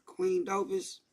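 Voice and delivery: high, loud, voice cracking with tears; overwhelmed by the message, crying out; choked up. Real, not acted. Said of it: "You know I get emotional".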